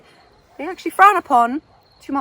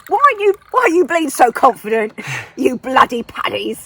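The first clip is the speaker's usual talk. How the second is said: hammed-up indignant English scolding; English colonial bully; 2 semitones higher, 6 dB louder than usual. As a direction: berate them as a pompous English invader. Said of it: "the English came in and said".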